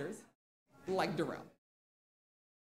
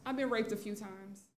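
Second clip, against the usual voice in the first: softer, offhand retold remark; nonchalant; 6 dB quieter than usual. Girls telling their teacher, nonchalant. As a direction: say it casually, as if it were nothing. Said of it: "just nonchalant".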